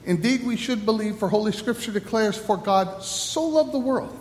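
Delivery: solemn liturgy read by the pastor; liturgical leading. Acted. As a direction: lead the congregation through confession, measured and solemn.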